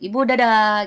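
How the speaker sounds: calling goodbye. Acted. Acted goodbye called to mother. (pamit ke ibu dengan suara naik)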